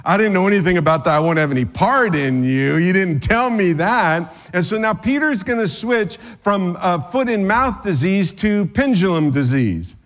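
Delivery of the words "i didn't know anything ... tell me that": flustered Peter. Acted. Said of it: "you can hear Peter say".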